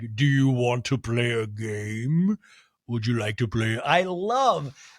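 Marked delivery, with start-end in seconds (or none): 0.1-3.8 game said low and stretched out. Comparing Whitney to the tricycle figure from Saw: Saw tricycle puppet voice. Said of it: "the little dude on the tricycle from Saw".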